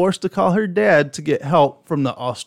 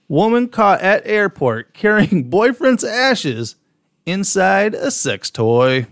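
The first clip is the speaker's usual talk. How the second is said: laughing read; 4 semitones higher, slower than usual. Real, not acted. Reading headline, laughing.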